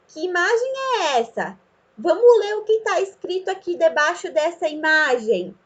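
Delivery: lightly acted reading prompt to a pupil; teacher prompting a child. Shown as a demonstration. Teacher asks child to read the picture, prompting.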